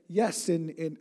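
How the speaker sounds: put-on abandoned stab at a Russian accent; attempted Russian accent. Quoting a Russian he met, hesitant Russian accent. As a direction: try a Russian accent, falter after two words. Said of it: "can't even do a Russian accent".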